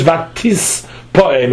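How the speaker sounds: "Vatis Poem" split after a held S; "Vatis Poem" with the added S lengthened; extra S sound. Shown as a demonstration. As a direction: hold the S ending "Vatis" before "Poem". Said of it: "with an extra suf".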